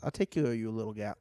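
put-on Boston accent. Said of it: "too long of a sentence there".

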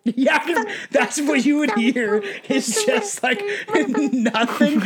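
high, slow little fairy voice; tiny fairy voice. Pretend. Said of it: "Can you try to do a fairy voice?".

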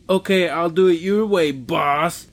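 mock-compliant worker's retort; grudging agreement with a dig on boss; sarcastic. Corrected worker answering the man in charge, sarcastic compliance. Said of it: "calls me boss in a sarcastic".

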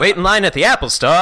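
put-on quick, laughing old-time announcer; 1940s newsreel announcer. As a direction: rattle it off like a vintage ad. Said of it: "Nineteen forties documentary news announcer".

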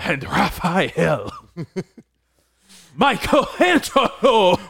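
slow, high drawn-out names, laughing; hammed-up Italian roll call; mock Italian call. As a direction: call each turtle like Ezio. Continuing the Ezio call joke.

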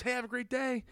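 high-pitched, imitated friendly send-off; mock really nice. Acting out someone being nice in passing, mock friendly.

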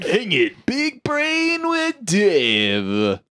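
slow, drawn-out ghostly intoning; low haunting voice. Acted. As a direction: moan it like a ghost. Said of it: "Kinda sound like a ghost there".

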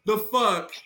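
slow, loud furious why the fuck; angry outburst. Real, not acted. Ranting about the wrestling ending, loud angry drawl. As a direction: drag it out, loud and fed up. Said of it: "going off about it".

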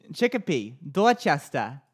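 Chicopee as CHICK-uh-pee, Dorchester as DAW-chess-tuh; local pronunciation demo. Shown as a demonstration. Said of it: "you're saying it all wrong".

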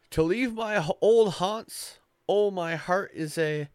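high, loud Scottish brogue reciting verse; Scottish accent. Acted. The brownie cries out over the blankets, in a hammed-up Scottish accent. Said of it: "you're trying to do it in Scottish".

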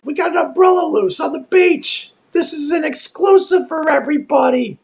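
high, nasal Western New York accent. Shown as a demonstration. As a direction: speak Western New York through the nose, pitched high. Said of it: "which is very nasally".

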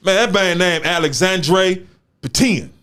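put-on slow hood reading, Petion as "puh-TEEN"; Black Haven hood drawl on Alexandre Petion; Black Haven hood accent. Shown as a demonstration. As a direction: read the name straight off the page in a hood accent. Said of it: "let me read it from Black Haven in the Hood".

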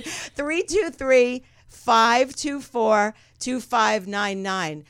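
phone number spaced out slowly; measured, drawn-out digit-by-digit announcement; slow, deliberate. Real, not acted. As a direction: read each digit slowly for callers. Reading phone number out for callers.

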